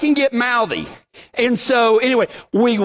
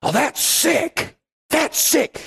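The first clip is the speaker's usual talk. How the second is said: slang dude; 4 semitones higher, slower than usual. Retold or imitated. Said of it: "Sick means cool now".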